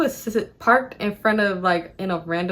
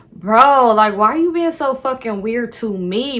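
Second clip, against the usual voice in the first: irritated. Retold or imitated. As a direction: let irritation burst out on the first word. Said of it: "irritated as fuck because".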